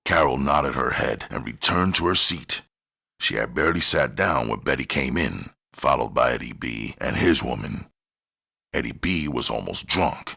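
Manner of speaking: plain reading voice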